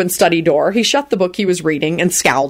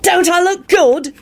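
cheerful; 13 semitones higher, slower than usual. A narrator's reading. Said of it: "Timothy asked William cheerfully".

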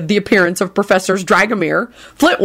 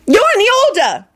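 authoritative. Acted.

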